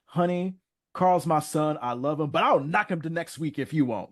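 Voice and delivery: sweet mom with a threat inside; mother reassuring Harriet, lightly voiced; lightly voiced Mama Winslow. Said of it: "Mama Winslow was like".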